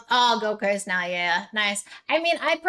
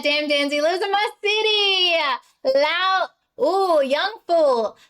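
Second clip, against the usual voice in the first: slow drawn-out reading; 4 semitones higher, slower than usual. Real, not acted. Reading viewer names aloud.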